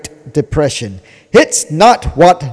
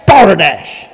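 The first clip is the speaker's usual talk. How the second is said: dropped scornful; 2 semitones higher, 4 dB louder than usual. Real, not acted. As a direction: let balderdash fall with disgust. Repeated denunciation.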